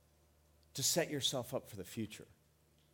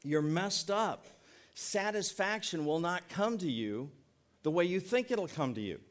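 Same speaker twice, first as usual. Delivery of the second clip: slow, higher, deliberate pleading rebuke; earnest rebuke; 4 semitones higher, 3 dB louder, slower than usual. Retold or imitated. Pastor voicing Jesus telling the crowd, slow earnest rebuke. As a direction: lay it out slowly like a firm but caring teacher. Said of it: "He told them".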